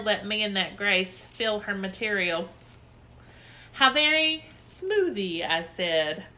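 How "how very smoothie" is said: admiring. Acted. Admiring the satin.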